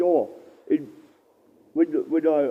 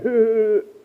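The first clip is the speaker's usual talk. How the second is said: imitated mocking laugh; 8 semitones higher, 8 dB louder than usual. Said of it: "And they started laughing".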